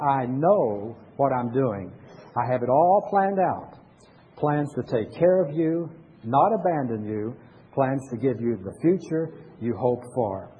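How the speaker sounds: slow, solemn words read as God speaking; voicing God. Shown as a demonstration. Pastor reading the verse again as God speaking, slow and solemn. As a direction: speak it as God's own promise, slowly. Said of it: "This is God talking".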